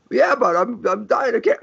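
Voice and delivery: pitched well up, protesting patient; high whiny objection. Retold or imitated. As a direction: squeak it out like a doubting patient. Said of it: "It's like".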